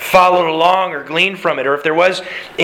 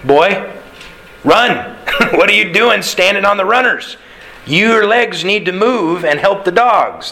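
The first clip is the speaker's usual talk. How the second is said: blunt scolding; 4 semitones higher than usual. Retold or imitated. Elder's lesson voiced as blunt scolding.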